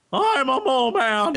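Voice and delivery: high, hammed-up Russian accent; Russian mole man. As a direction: announce yourself as a silly Russian mole man. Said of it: "the mole men are clearly Russian".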